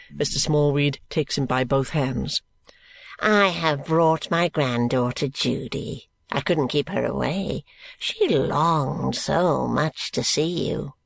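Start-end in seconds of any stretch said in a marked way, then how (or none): 3.2-10.9 put-on slow, gasping, wheezing old man; a decrepit old miser catching his breath. Grandfather Smallweed greeting George, slow and gasping.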